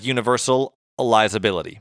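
"universalizability" sounded out carefully in parts; slow, careful pronunciation. Real, not acted. Host struggles with the word universalizability, saying it slowly. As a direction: take "universalizability" slowly, piece by piece. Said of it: "had to say it slow for myself".

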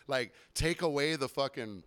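normal talking voice

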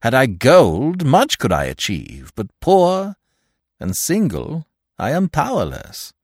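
high, loud lament, easing at the end; crying out. A narrator's reading. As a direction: cry out your helplessness theatrically. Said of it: "cried I".

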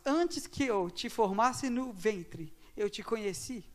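slow, solemn Bible reading; scripture reading. Acted. Preacher reading Jeremiah slowly to the congregation. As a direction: read each word slowly, with weight.

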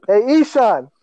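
high imitation of parents calling out; mock parental yell. Parents summon Ishan from the living room, yelling. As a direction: call out like annoyed parents, half-shouted. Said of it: "my dad both yell".

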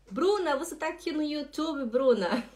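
high, bright-eyed call to someone just spotted; delighted greeting. Real, not acted. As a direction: call out the name in happy surprise. Spots a viewer in chat, calls out.

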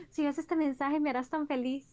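begging for attention, mocking; mock begging fan. Fan messages mocked. (fan suplicando, burlón)

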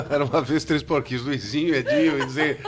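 laughing. Acted. Replays the story, laughing.

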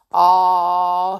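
long, loud grave "Ah". A narrator's reading. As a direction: hold it out as if very wise. Stupid repeats his ah.

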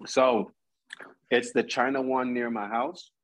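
talking through a mouthful of food; chewing while speaking; mouth full. Real, not acted. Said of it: "I got my mouth full".

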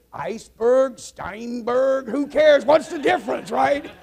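high, loud punch-line brush-off; acted dismissiveness. Chinese co-pilot throws the pilot's excuse back, loudly dismissive.

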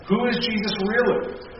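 high prompt on Who; teacher's call-and-response prompt. Shown as a demonstration. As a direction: ask Who high, clearly, to draw the answer. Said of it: "let's try that again".

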